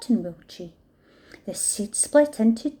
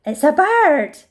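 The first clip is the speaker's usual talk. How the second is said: snorting buffalo; 6 semitones higher, 8 dB louder than usual. A narrator's reading. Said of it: "said the buffalo, giving a snort".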